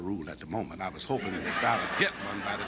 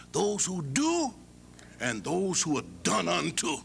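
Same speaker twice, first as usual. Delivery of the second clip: grand pronouncement; 6 semitones higher, slower than usual. Retold or imitated. President pronouncing the rule.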